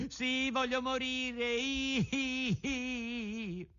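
high, wailing sob-laden pleading; crying lament. A narrator's reading. Pinocchio mourning the fairy at her grave, high wailing sobs. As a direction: wail it like a heartbroken wooden boy. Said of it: "E piangendo diceva".

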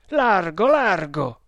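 loud, urgent repeated cry; high first cry, falling on the repeat; shouted order. A narrator's reading. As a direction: clear a path by force of voice. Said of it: "gridò".

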